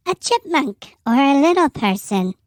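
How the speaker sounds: chipmunk voice. Shown as a demonstration. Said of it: "turn the pitch up and sound like".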